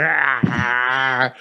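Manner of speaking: drawn-out mock monster "ah"; imitated raging roar, not at full volume. Host imitates himself raging at a stranger, mock roar. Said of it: "And I was like".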